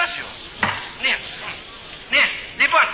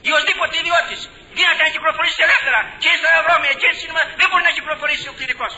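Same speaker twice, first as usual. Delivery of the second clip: loud, raised preaching voice; preaching shout; 5 semitones higher, 4 dB louder than usual. Real, not acted. Priest shouts to his flock about clergy, preaching loud. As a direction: thunder it out from the pulpit.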